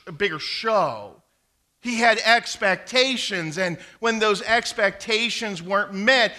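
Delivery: full-force preaching. Acted. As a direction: preach it out to the whole congregation.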